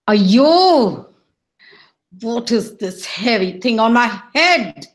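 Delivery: indignant outburst, swelling on the exclamation; angry. Acted. Kurmai grumbling about the weight on his head, angry. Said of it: "Kurmai strode angrily out of his house".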